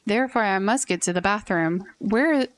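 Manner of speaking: lightly voiced formal businessman, slightly measured; a stiff, polite office man in a hurry; a hint of a rigid businessman insisting on coffee. Businessman Jerry wants coffee.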